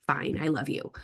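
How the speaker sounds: put-on mildly grudging, offhand teen reply; teenage attitude. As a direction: concede it like a teenager saying whatever. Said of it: "there's that attitude".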